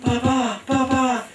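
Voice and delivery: acuto grido di bambino al padre; richiamo gridato. Acted. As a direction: chiama papà con voce molto alta. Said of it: "gridava Pavel". (bambino che grida "papà")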